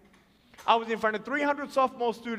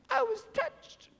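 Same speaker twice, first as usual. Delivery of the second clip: high, slow crying imitation; mock tearful; 3 dB quieter, slower than usual. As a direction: whimper it out, hammed up. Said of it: "some people were crying".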